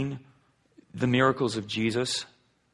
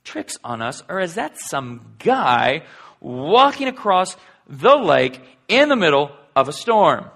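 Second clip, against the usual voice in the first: disciples wondering; 3 semitones higher, 4 dB louder, slower than usual. Retold or imitated.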